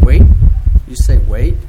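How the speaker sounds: indignant, rising questions; mildly affronted, questioning retort. A narrator's reading. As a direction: throw it back in disbelief. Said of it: "my indignant reply".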